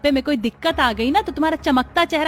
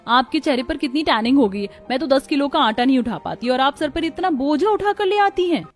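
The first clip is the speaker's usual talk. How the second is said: chirpy teasing; 4 semitones higher than usual. Acted. City bahu teasing elder sister-in-law.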